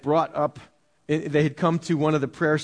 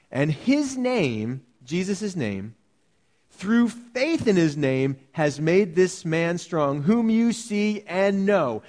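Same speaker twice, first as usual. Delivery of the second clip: slow, deliberate reading of the verse; solemn scripture reading; slower than usual. Acted. Preacher reading the verse to the church, slow and solemn. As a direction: lay each phrase down slowly.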